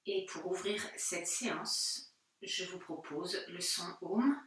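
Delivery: calm yoga guidance with long pauses; unhurried, settled meditation voice; guided meditation. Acted. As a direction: guide them gently inward, leaving space between phrases. Leads seated relaxation before chanting Om.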